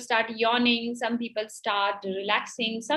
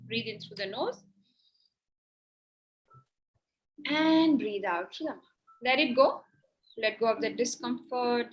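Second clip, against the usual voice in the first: guided breathing meditation. Acted. Guides breathing and closed eyes.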